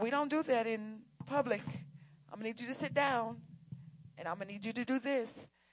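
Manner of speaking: soft-spoken, quiet voice. Retelling what the speaker told the children at the dentist: soft voice. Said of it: "And that was the soft voice".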